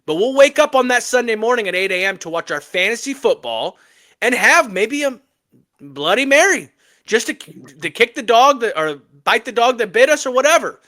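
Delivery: ladies-and-gentlemen rally call to the listeners; hype announcer speech. Acted. Host kicking off the NFL segment for the audience, mock hype announcer. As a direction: pump the crowd up like a mock master of ceremonies. Hosts a hype intro for football.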